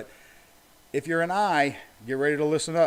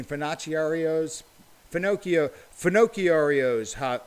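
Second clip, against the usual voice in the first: sounding out slowly; slower than usual. Shown as a demonstration. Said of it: "Clap out the hard words".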